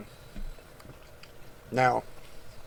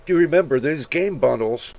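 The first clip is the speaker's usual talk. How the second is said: yawning; 2 semitones higher, 6 dB louder than usual. Real, not acted. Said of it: "I'm sorry, I'm yawning".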